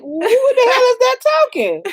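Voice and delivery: high-pitched baffled outburst; acted bewilderment. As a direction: blurt it out as if startled from sleep. Startled awake by voices in bed.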